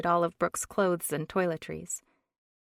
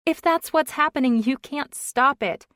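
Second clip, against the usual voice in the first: panicked pleading; 7 semitones higher, 7 dB louder than usual. A narrator's reading. Panicked argument in speeding car.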